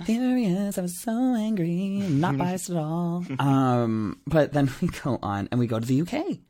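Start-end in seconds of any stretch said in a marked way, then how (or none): 0.1-3.2 mock anger. Echoing mock fury.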